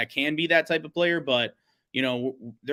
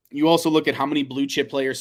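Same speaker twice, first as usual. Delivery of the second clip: hiccups; 4 dB louder than usual. Real, not acted. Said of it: "excuse me for, for hiccuping".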